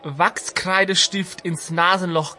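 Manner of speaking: put-on slow, dim-witted old man, lightly done; Homer voice. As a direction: drawl it like a dopey old sage.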